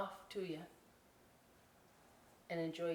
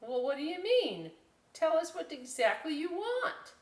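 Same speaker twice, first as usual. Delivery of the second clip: higher, louder demand; demanding student; 10 semitones higher, 5 dB louder than usual. Retold or imitated. Classroom student demanding clear instructions, raised voice. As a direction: press the teacher for exact rules. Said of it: "people are like".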